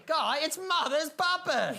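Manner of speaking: slow, dramatic title announcement; drawn-out announcer voice. Acted. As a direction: stretch out the name like a showman.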